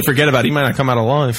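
put-on light Boston accent, tough guy; a hint of a Boston tough guy. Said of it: "That's your Boston accent".

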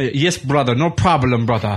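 hammed-up Iron Sheik accent, obliging; terrible Sheik impersonation. Sheik agreeing to mind Marty's girl, bad Sheik accent. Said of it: "I have a terrible Sheik impersonation".

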